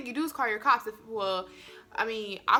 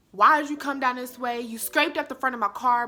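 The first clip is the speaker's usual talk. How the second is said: a touch louder, accusing the driver; mild mock yell; 2 semitones higher, 4 dB louder than usual. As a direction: scold him, half-raised. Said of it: "started yelling".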